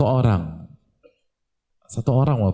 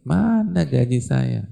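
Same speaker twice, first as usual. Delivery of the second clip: blunt demand; 4 semitones higher, slower than usual. Retold or imitated. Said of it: "nggak ada basa-basi".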